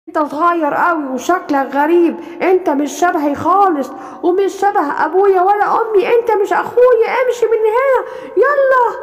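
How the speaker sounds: mock him for looking strange; bossy big lion.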